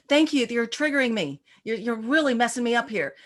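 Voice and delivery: chirpy student thanking and complaining at once; cheerful students. Retold or imitated. Scene: students lining up at the break to cheerfully complain.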